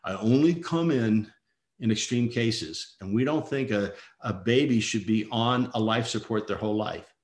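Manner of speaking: a hint of a deep, deliberate doctor's voice; deep-voiced doctor. Doctor called in for extreme cases addresses the parents, lightly imitated deep voice. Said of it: "he had the deep, deep voice".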